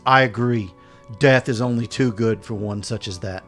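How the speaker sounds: booming troll voice, loud; dopey cartoon bellow. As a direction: boom it out like a big troll. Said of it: "in a booming voice".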